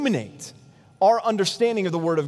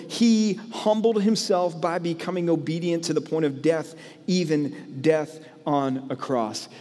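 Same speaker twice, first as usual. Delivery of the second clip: scripture reading. Acted.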